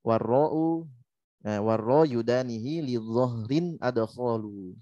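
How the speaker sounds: slow, chanted verse recitation; slow measured Quran-style recitation; recited verse. Shown as a demonstration. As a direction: intone the verse line slowly. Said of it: "teacher recites the verse".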